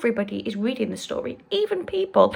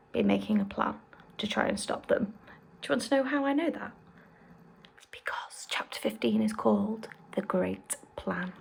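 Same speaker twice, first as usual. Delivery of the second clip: conspiratorial hush; 6 dB quieter than usual. Real, not acted. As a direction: let them in on a secret, hushed. Teasing secret to young listeners.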